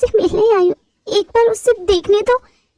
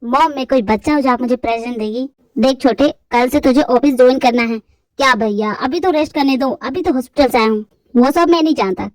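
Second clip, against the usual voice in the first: lower, whiny younger brother; young man's voice; 6 semitones lower than usual. Acted. Brothers arguing over joining the office, lower male voice. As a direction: argue like brothers at home.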